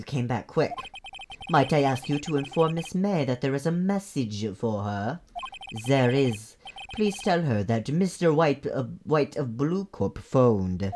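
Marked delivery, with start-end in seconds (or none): 1.5-10.9 mock-French bellboy relaying a message; formal request in a fake French accent. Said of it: "I'm gonna make him French".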